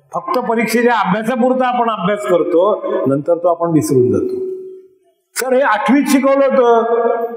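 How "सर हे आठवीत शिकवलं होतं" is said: whiny student. Retold or imitated. Teacher mimicking a pupil excusing himself, mock whine. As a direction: plead like a pupil who forgot, hammed up a touch.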